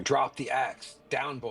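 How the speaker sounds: yelling command. Acted. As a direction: yell at him to drop the axe. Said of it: "Horgoth's yelling".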